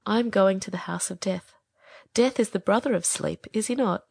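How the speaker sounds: whispered, breathless final words; a fading bird whispering of death; the dying swallow whispering to the prince. A narrator's reading.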